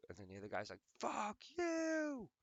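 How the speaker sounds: squeaky high cartoon voices; gamer video voices. Retelling a gamer video, squeaky high cartoon voices. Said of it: "it was like".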